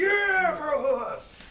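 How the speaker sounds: loud, high cheerful shout; excited shout back. Retold or imitated. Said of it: "I'm like".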